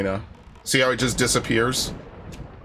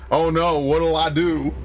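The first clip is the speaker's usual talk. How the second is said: mock terror; 4 semitones higher, slower than usual. Mock fear after "so terrified.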